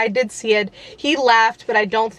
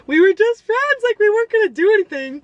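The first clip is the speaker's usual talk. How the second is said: much higher, fast exasperated protest; 10 semitones higher than usual. Real, not acted. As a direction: squeal it in disbelief.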